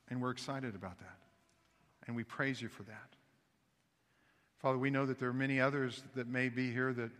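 hushed, steady congregational prayer. Acted. Pastor praying for visitors in the congregation, steady and hushed. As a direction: pray over the room, unhurried.

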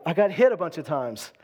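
a hint of a grumbling believer complaining to God; complaining to God about evil days, mildly whiny; mock complaint. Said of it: "Maybe it doesn't look like victory to say".

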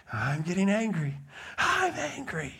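mock anger climbing to a thin high squeal; imitated rising whistle. Preacher replays little guy's anger to bring levity, small rising squeal. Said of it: "this little guy in our mind".

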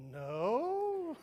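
put-on high, loud childish no; toddler voice. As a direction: squeal it like a proud little boy. Hidden toddler answers.

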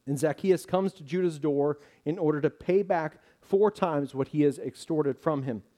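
normal talking voice

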